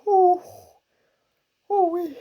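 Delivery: high, loud ooh after a harsh hit; high ooh-wee. Real, not acted. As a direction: yelp at the mint sting. Reacting to strong minty hit.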